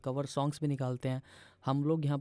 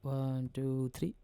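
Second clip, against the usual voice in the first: teacher counting three-four time; counting beats; 4 dB quieter, much slower than usual. Shown as a demonstration. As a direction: count "वन, टू, थ्री" slowly and softly in strict time. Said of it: "अब अगर मैं इसको थ्री कर दूँ".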